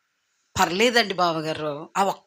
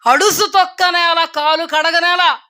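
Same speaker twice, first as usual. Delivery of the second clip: proverb recited; 7 semitones higher, 4 dB louder than usual. Acted. Preacher recites Telugu proverb.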